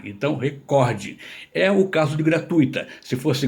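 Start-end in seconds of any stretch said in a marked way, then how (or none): 0.3-1.2 "recorde" said re-COR-de; stress on middle syllable. Shown as a demonstration. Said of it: "é uma palavra paroxítona".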